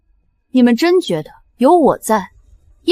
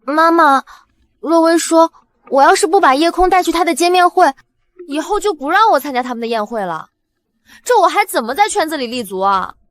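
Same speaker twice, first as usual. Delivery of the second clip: high, pleading whine to mother; plaintive complaint; 6 semitones higher than usual. Acted. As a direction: appeal to mum in a raised, aggrieved pitch.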